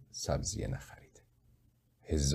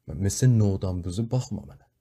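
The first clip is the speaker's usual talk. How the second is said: angry shout; 3 semitones higher, 3 dB louder than usual. A narrator's reading. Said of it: "با عصبانیت سرم داد کشید".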